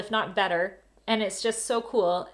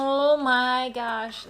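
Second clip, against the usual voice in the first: put-on very slow, drawn-out Valley Girl "Oh my gosh"; 2 semitones higher, much slower than usual. Shown as a demonstration. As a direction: stretch it like a California valley girl. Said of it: "They're like".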